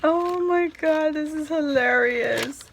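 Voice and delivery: squealing at the gift; excited exclaim. Real, not acted. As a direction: let the joy burst out. Big reaction, loud and high.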